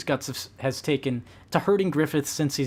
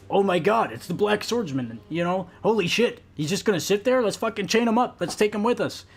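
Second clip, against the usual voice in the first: higher-pitched, eager group chatter; excited discovery; 5 semitones higher than usual. Acted. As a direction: act out a gang stumbling on a prize captive. Acted discovery by boarding faction.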